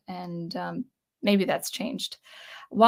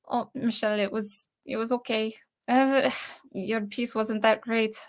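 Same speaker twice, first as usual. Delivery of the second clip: softer, badly faked French accent; 4 dB quieter than usual. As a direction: imitate a French professor with a poor French accent. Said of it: "that was my really bad French accent".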